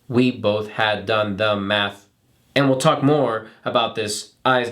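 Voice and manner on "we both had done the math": robot voice. Shown as a demonstration. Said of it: "break those up into sections".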